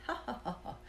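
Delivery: high, airy imitated laugh; mock laughter. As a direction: laugh at yourself in disbelief. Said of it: "I just started laughing".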